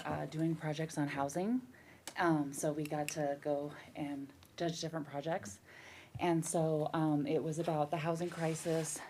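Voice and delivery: slightly out of breath. Real, not acted. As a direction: talk while out of breath. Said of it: "Sorry, I'm out of breath from running in the room".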